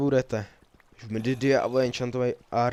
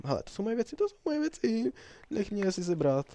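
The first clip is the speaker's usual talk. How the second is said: excited; 10 semitones higher than usual. Real, not acted. Finds lost items.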